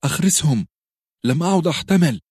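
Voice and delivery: high, loud desperate scream; frantic shriek. A narrator's reading. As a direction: scream to make it stop. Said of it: "وصرخت".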